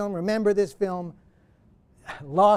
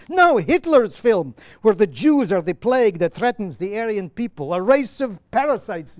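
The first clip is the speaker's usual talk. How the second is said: louder, impassioned play reading; Lemkin's monologue; 3 semitones higher, 6 dB louder than usual. Acted. Lemkin answering Petronius from the play, louder and impassioned. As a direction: proclaim it like a driven man with a cause.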